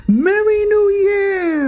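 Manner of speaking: very high, drawn-out mock-African accent; crazy African accent. Exchange student from Cameroon greeting Beaks, crazy African accent. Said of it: "he's putting on this crazy African accent".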